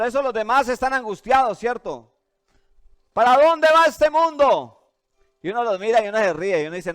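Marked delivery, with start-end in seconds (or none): 3.1-4.9 high, loud and slow, a despairing wail; anguished lament. Acted. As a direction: drag it out like the world is ending. Anguished others fearing the world.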